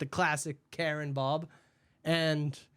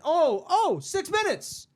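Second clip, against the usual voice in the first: high, loud sarcastic gasping outrage; mock horror; 7 semitones higher, 4 dB louder than usual. Worker mocking a customer's six-minute wait, hammed-up horror. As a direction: exaggerate the disaster to ridicule her.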